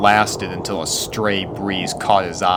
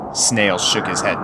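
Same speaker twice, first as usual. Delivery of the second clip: usual speaking voice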